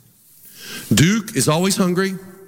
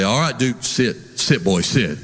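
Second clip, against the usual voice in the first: low, steady command to the dog; a calm, firm sit command; 5 semitones lower than usual. Retold or imitated. Preacher telling his dog Duke to sit, low and firm. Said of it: "I'll say".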